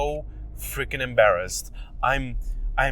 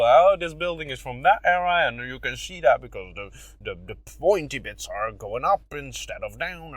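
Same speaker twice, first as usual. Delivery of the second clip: breezy presenter voice. Retold or imitated. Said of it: "I instantly go".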